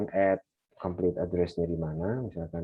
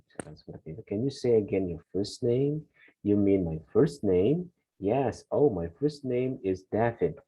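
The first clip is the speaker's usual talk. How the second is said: slow, careful reading of a conversation; model dialogue reading; 2 semitones higher, slower than usual. Acted. Teacher reading a sample dialogue aloud for students. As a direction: read both roles slowly and clearly.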